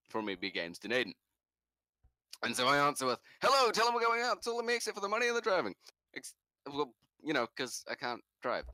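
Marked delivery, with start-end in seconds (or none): 3.4-5.8 groggy. Retold or imitated. Groggy answering the phone.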